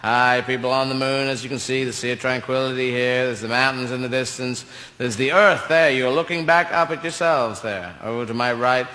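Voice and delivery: mock tour guide. Astronaut presenting the moon to viewers at home, in a calm tour-guide voice. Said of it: "he could have been there saying".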